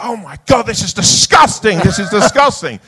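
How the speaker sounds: high, loud outraged cry; belting out. Retold or imitated. Actor finding the mess in his trailer, belting out. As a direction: belt it out in disgust, way up high. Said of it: "He's going belting out".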